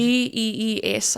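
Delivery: slowly, letter by letter; spelling out. Shown as a demonstration. Speaker spelling an Afrikaans word for the interviewer, slowly letter by letter. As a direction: spell G E E S with each letter separate. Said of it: "How's it spelled?".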